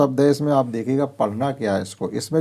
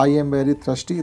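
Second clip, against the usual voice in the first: slow reading aloud; 2 semitones higher, much slower than usual. Shown as a demonstration. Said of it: "thirsty means प्यासा होता".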